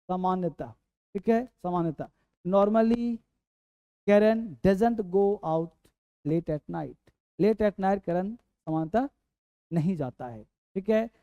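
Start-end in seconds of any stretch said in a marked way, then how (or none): 4.1-7.0 drawn-out teaching read; slow model sentence. Shown as a demonstration. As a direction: say it slowly for the class. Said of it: "teacher models sentence slowly".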